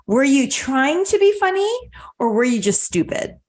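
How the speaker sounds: lightly voiced cutting wit, sweetly pointed; a hint of sarcasm behind polite words; mildly sardonic comeback. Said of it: "with such cutting wit, almost sardonic".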